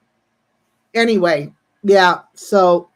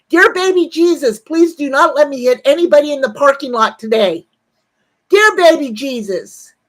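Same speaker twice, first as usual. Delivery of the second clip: raised-voice mock plea to heaven; mock prayer; 4 semitones higher, 4 dB louder than usual. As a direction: pray it out for everyone to hear. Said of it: "I've got my head tilt back ... and I'm saying".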